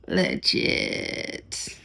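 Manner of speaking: breathy whispered aside. Pretend. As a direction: whisper the word under breath. Whispered aside after joke.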